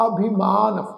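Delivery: ਅਭਿਮਾਨ with i, then a long aa; ਅਭਿਮਾਨ with short i. Shown as a demonstration. Teacher modelling the word, ਅਭਿਮਾਨ said "abhi-maan". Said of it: "ਉਚਾਰਨ ਇਸ ਢੰਗ ਨਾਲ ਕਰਨਾ".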